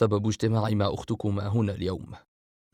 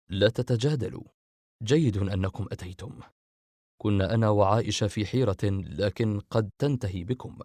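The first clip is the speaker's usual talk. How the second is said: calmly. Acted. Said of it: "عبد الرحمن بهدوء".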